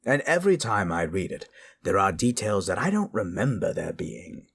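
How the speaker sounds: lightly voiced eerie host bidding travelers goodnight; a hint of a campfire narrator; spooky storyteller host. Soft spooky host sign-off.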